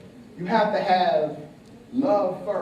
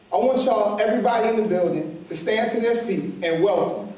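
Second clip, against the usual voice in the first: hype announcer shout; 4 semitones higher than usual. Real, not acted. Host introduces the guest.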